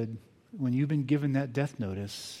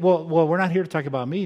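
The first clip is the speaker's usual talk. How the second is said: flustered psychiatrist; 3 semitones higher, 6 dB louder than usual. Retold or imitated.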